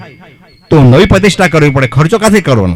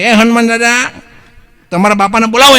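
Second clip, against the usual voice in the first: put-on high, slurred drunk calling to the idol; a drunk man shouting up at Hanuman; 7 semitones higher than usual. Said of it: "એમ કે". (ઊંચા અવાજે નશામાં બૂમ)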